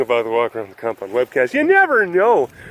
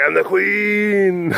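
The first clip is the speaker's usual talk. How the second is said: bad Queen impression; 4 semitones higher, slower than usual. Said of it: "not what the Queen sounds like".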